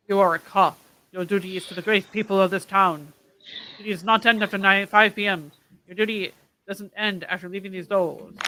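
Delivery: a hint of an old-time tough guy; lightly voiced 1920s cop lecture; 1920s gangster voice. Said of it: "You do it in the nineteen twenties voice".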